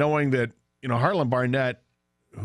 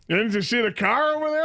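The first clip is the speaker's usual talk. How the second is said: retold scolding; 11 semitones higher than usual. Retold dad scolds young driver.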